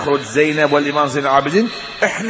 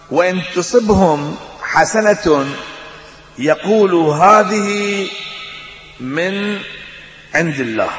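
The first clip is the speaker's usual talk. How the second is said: Quran recitation; much slower than usual. Acted.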